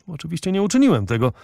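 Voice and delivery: fast chattering French valet. Acted. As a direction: rattle it off fast like a gossiping servant. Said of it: "trajkotał Francuz".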